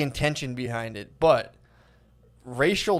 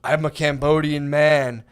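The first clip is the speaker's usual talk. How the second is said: imitating dad; 4 dB louder than usual. Imitating a dad recording his podcast for his daughter, lightly voiced grand father. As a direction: proclaim your heritage like a grand patriarch. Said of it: "so her dad started".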